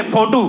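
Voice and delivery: फोटो said as "photu", with an aspirated ph and a final u; west UP फोटो. Shown as a demonstration. Comedian showing how he says फोटो back home: "phoTu". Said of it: "अपने style में बोलते थे".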